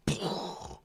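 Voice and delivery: soft puffed silenced gunshot noise; imitated gunshot. Pretend sniper firing after lining up crosshairs, puffed gunshot. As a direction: puff out a pretend rifle shot.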